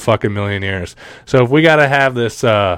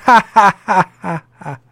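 mock cackle; 8 semitones higher than usual. Mocking Kamala's laugh.

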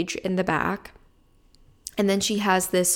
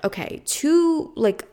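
maintenance man. Retold or imitated.

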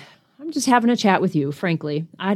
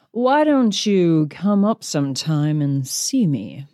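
Mae West; 4 semitones lower, slower than usual. Retold or imitated. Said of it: "The actress is Mae West".

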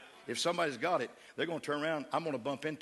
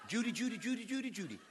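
Gomer Pyle impression; 6 semitones higher, 3 dB quieter, faster than usual. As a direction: ham up a goofy southern sidekick calling Judy. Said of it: "I can talk like Gomer".

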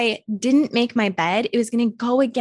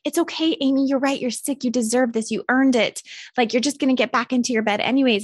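tempting inner voice; 2 semitones higher than usual. Retold or imitated. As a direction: coax yourself to stay in bed, sugary and soothing. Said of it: "that bitch voice is telling you".

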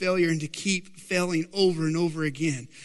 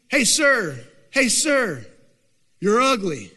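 parrot taunt; 2 semitones higher, 4 dB louder, slower than usual. Acted. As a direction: heckle a passer-by like a pet bird. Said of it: "the bird would say".

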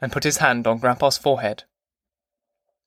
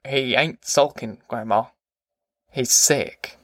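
understated gentle correction; a touch of tenderness. A narrator's reading. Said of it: "Casey said gently".

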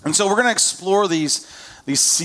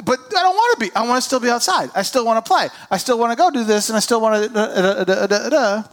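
put-on higher whiny child voice; mock whiny kid; 5 semitones higher than usual. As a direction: whine like a kid who won't change clothes. Voicing kids whining about clothes.

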